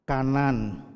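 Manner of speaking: a lightly voiced inner voice, calm and falling; voice of God. Preacher voicing God's guiding word to him, lightly and calmly. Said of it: "di telinga saya ada suara".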